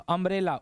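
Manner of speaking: अम्ब्रेला opened with a short "uh"; correct pronunciation. Shown as a demonstration. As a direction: say अम्ब्रेला with an "uh" first vowel, not "oom". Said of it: "उम्ब्रेला नहीं पढ़ते हैं इसको".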